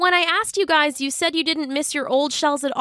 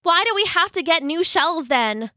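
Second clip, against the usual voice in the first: high, complaining storybook voice; frustrated cry; 9 semitones higher than usual. A narrator's reading. Young crab protesting about new shells, very frustrated. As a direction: raise the pitch in exasperated protest. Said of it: "cried Jasper in a very frustrated voice".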